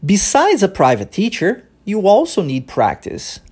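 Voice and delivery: slow English model line, pause after teacher; natural rhythm demo. Shown as a demonstration. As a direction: say it with a pause right after "teacher", tune falling at the end. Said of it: "uma pausa que é feita, logo depois da palavra teacher". (frase modelo lenta, com pausa depois de "teacher")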